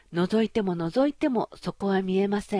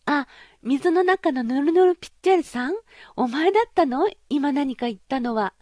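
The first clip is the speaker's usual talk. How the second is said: put-on high, loud girlish princess voice, half scornful; a pampered princess, pitched up and bright with surprise; spoiled young princess; 6 semitones higher, 5 dB louder than usual. Princess voiced in fairy tale. (高く大きな声のわがままなお姫様)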